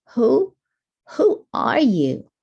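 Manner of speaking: high, loud stuttered question; startled stammer. Acted. Tommy startled by the masked hero, stammering. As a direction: stumble over the question in shock. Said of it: "Then he said".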